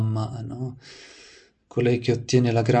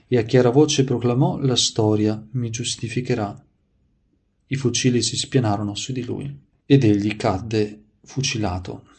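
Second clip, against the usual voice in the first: measured, projected read-aloud of a saint's life; story narration; 4 dB louder than usual. A narrator's reading. Preacher reading saints' anecdotes to listeners, devotional narration. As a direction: read it out clearly, phrase by phrase.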